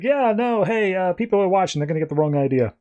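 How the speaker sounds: high, embarrassed brush-off; awkward Ted. Retold or imitated. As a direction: push the hug away, nervous and high. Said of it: "he's like".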